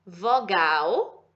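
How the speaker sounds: drawn-out teaching count, one part at a time; slow classroom demo of consonant, vowel, consonant; slow spelled pattern. Shown as a demonstration. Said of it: "quando ela for esse padrão aqui".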